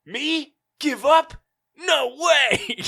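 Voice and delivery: high, loud hammed-up defiant shout; mock heroic yell. Ash defying the idea of quitting, hammed-up shout. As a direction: yell it like a cartoon hero. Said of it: "And he yells".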